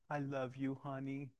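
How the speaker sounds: soft, quoted loving words; tender endearment. Retold or imitated. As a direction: say it softly, as a wife to her husband. Voicing wife's loving words.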